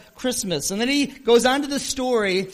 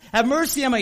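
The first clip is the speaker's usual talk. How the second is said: loud, higher repeated plea; desperate yell; 5 semitones higher, 6 dB louder, faster than usual. Retold or imitated. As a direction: shout it again, even more urgent. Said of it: "he's screaming at the top of his lungs".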